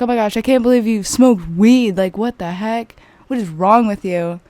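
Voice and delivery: mock-scolding a friend in disbelief; lightly imitated judgmental reproach. Friend scolding her over smoking weed, judgmental. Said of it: "being all judgmental and stuff".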